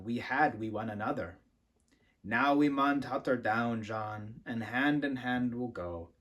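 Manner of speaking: gentle recital, lingering on John Anderson; tender poem reading. Acted. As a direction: read it like a love poem to your husband. Reads poem aloud.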